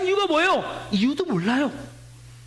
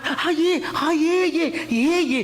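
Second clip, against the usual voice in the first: eager phone answer; 2 semitones higher, much slower than usual. Retold or imitated. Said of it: "그래서 막 발".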